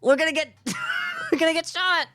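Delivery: panicked shout. Acted. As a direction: shriek in sudden panic. Panicked outburst in game.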